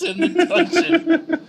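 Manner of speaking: slow, high gossiping monster; gossipy monster voice. Acted. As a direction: drawl it like a catty little monster. Voicing a gossiping flump.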